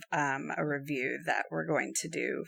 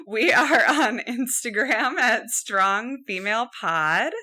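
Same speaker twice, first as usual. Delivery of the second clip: laughing while talking; 4 semitones higher, 7 dB louder, slower than usual. Real, not acted. Giggling while giving handles.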